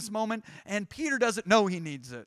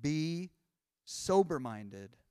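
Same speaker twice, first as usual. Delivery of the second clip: slow exhortation; 7 semitones lower, 4 dB quieter, much slower than usual. Acted. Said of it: "look at the next instruction".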